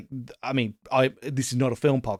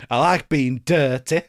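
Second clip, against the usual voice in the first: mock tough northern accent; 4 dB louder than usual. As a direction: camp attempt at a northern English accent. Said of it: "trying to do his tough northern accent".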